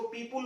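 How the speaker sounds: people with a "pul" ending; people as "peepul". Shown as a demonstration. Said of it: "कई लोग इसको पीपुल बोलते हैं". (people का उच्चारण "पीपुल")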